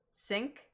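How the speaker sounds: "sink" with a lax short I, towards "senk"; careful rising "sink", vowel opened; corrected short I. Shown as a demonstration. Trying the I sound, not E sound, "sink" with lax vowel. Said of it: "I sound, not E sound?".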